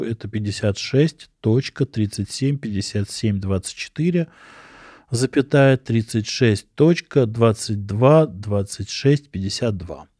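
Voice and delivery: slow, careful reading of coordinates; dictating. Shown as a demonstration. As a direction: read the numbers out clearly for writing down. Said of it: "я щас расскажу".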